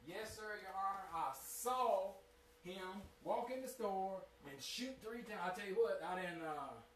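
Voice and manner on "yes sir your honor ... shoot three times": false court testimony. Retold or imitated. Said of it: "boldface lie on somebody".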